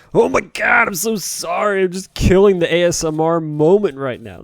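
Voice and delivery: high, loud, hammed-up panicked apology; mock panicked apology. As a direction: blurt it out, overacted and far too loud. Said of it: "And I'm like".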